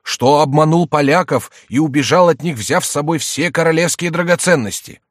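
high, loud theatrical confession; jester posing as king. A narrator's reading. Jester lists the king's sins, loud mock penitence. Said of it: "продолжал за Генриха Шико".

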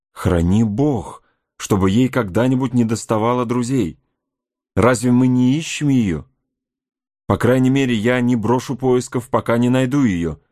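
earnest, lightly exclaimed protest; mild exclamation. Acted. Heyward vows to the scout to keep searching, mildly exclaiming. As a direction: exclaim it with restrained fervour. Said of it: "воскликнул Хейвард".

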